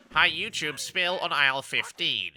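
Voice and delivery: a hint of a store tannoy announcer; supermarket announcer voice. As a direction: drone it like a shop intercom. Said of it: "the supermarket trolley attendant".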